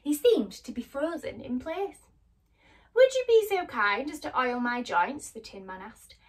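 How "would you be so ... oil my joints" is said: stiff, creaky-jawed tin voice; creaky Tin Man. A narrator's reading. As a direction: squeeze it out through a rusty jaw. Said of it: "through his creaky, rusty jaw".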